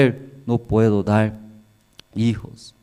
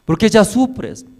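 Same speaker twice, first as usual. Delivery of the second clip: higher, louder coaxing husband's voice; husband Elcana pleads with crying Ana, high and loud; pleading husband; 8 semitones higher, 4 dB louder than usual. Acted. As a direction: beg her gently but urgently like a worried loving husband.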